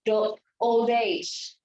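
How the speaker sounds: put-on the old age run together as one word, theoldage; linking demo, slow; linked words. Shown as a demonstration. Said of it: "So for example".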